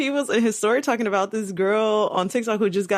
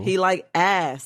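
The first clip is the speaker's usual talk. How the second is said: slow emphatic; slower than usual. Shown as a demonstration. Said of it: "That's what he's saying".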